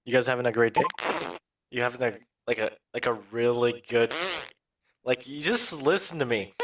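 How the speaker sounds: a loose, chuckling take on Seth Rogen; Seth Rogen impression. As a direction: breaks into laughter mid-impression. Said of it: "let me do Seth Rogen".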